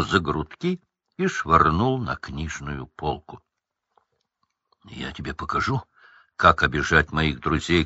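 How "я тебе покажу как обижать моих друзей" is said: ordinary delivery, nothing marked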